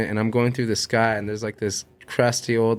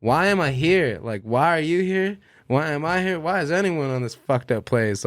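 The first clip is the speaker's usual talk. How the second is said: retold childhood outburst, pitched high; mock exasperated demanding, voice raised in pitch; angry questioning; 6 semitones higher than usual. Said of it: "angry at my mom".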